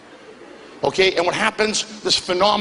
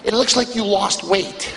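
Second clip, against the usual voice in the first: slow nosy remark; slower than usual. Retold or imitated. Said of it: "she says this to me".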